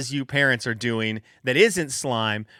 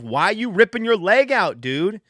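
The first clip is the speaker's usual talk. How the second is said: exasperated plea; 7 semitones higher, 5 dB louder than usual. Retold or imitated. Dad pleading with son.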